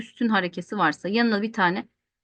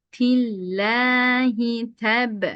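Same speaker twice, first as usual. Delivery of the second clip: slow drawn-out chanted recitation; Quran recitation; much slower than usual. Shown as a demonstration. Teacher reciting the verse for students. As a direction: chant each vowel long and even. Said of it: "teacher recites Quran verse".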